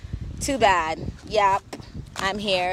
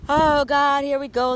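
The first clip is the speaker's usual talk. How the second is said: exasperated eye-roll; 7 semitones higher, 6 dB louder than usual. Acted. Exasperated at trolls' comments.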